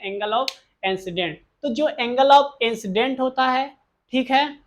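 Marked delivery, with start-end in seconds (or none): 0.0-1.3 शब्द अलग-अलग, धीरे से बोलना; हर शब्द साफ़ और धीमे से दोहराना; slow recap. Shown as a demonstration. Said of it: "क्या कहते हैं?". (छात्रों के लिए शब्द धीमे दोहराते हुए)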